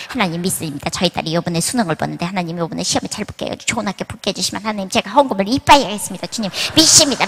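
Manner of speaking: rushed, pleading prayer-bargaining, lightly voiced; hammed-up mother rattling off promises to God; mock fervent prayer. Mother bargaining with God for her daughter's exam, mock fervent. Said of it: "막 이러면서 막".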